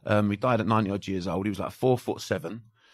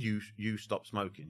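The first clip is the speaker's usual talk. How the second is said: much softer, slowed hypnotic murmur; soft embedded command; 9 dB quieter than usual. Shown as a demonstration. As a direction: slip the command in under your breath. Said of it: "on the whisper".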